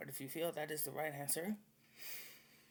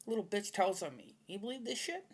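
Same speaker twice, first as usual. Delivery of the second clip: mocking whine; 7 semitones higher, 6 dB louder than usual. Retold argument, mocking the guy.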